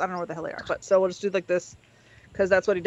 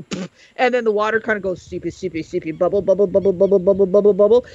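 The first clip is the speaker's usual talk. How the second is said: low chant that gets louder; bubbling sound effect made with words; imitated bubbling water; 4 semitones lower, 3 dB louder, faster than usual. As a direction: burble the words in a steady low rhythm. Acting out water seeping and bubbling.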